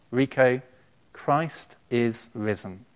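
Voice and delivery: slow, measured calm with pauses between phrases. Retold or imitated. Dying friend answers Rico's blurted question, very calmly. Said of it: "said very calmly".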